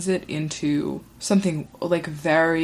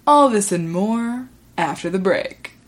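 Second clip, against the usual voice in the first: hint of a news anchor's teaser; mock newscaster. Host teasing the show before the break, mock newscaster.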